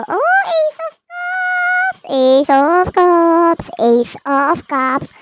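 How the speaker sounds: slow, drawn-out, high exclamation; excited card reveal. Real, not acted. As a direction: stretch it out in delight. (sabik at pahabang sigaw sa baraha)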